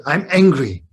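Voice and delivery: loud, imitated child's protest; angry grandchild. Grandchild declaring a mood to grandparent, mock-angry. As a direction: act out a cross grandchild. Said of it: "Let's say she said".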